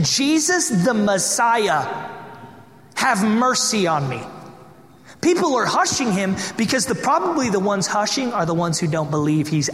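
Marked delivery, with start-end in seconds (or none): 0.0-4.2 projected cry. Retold or imitated. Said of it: "yelled out and projected".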